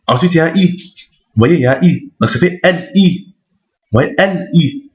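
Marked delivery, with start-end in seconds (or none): 2.6-4.9 "L I" as two detached sounds; separated, no liaison. Shown as a demonstration. Teacher sounding out the exercise, "L I" separated. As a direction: finish the L, then a fresh "I". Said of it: "On sépare".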